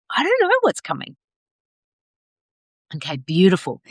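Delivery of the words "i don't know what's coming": sung-out high carefree line; airy surrender. Pretend. Coach voicing women releasing into unknown, high airy surrender. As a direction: float it up high, letting go of control. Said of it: "releasing into".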